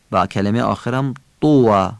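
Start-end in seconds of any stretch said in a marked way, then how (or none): 1.4-1.9 طوی with a full, heavy Arabic ط; eloquent Arabic articulation. Shown as a demonstration. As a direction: say طوی slowly in careful classical Arabic. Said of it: "تمام همزه ها رو باید فصیح بگیم".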